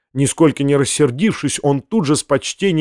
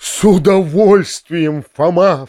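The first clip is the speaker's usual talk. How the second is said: exclaiming; 3 semitones higher, slower than usual. Acted. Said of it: "вскричал дядя".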